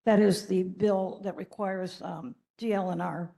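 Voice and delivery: talking with a hoarse throat. Real, not acted. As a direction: speak through a worn, hoarse voice. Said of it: "I have a hoarse voice tonight".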